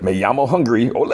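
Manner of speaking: high, hammed-up mock Spanish flourish; playful exclamation. Sweet Tooth leaves with his plates, playful flourish. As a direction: toss it out as a silly exit line. Silly Spanish exit line, retold.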